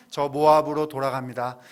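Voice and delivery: declared loudly, like a parting threat; a loud mock ultimatum to the mother-in-law. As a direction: announce the leaving loud and firm. Acted threat to leave.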